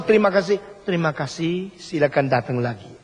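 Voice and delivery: a hint of scripted, hollow courtesy; lightly mocked insincere thanks; mock rote politeness. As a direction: parrot the trained staff greeting lightly. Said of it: "Kalau bilang".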